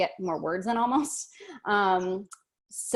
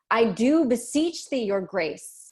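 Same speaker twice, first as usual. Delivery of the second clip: a touch of urgent pleading; 3 semitones higher, 4 dB louder, slower than usual. Retold or imitated. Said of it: "she's jumping in with".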